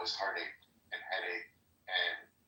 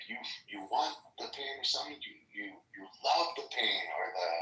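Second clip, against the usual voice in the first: imitating African accent. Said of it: "a bald African guy with this accent".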